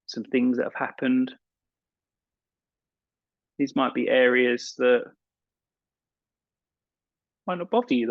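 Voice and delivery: calm meditation guide with long pauses; unhurried guiding voice, leaving space between phrases; guided meditation. Acted. Yoga teacher settling an evening class into relaxation, guided meditation.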